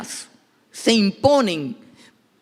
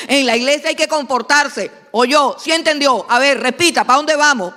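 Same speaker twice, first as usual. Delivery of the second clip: loud, raised, insistent instructions; firm parent; 4 semitones higher, 5 dB louder than usual. Acted. Parent teaching a child church rules before going, firm and loud. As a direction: lay down the rules emphatically, point by point.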